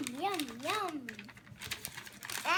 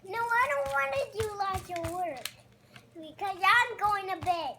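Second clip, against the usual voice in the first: loud puppet refusal; 6 dB louder than usual. Pretend.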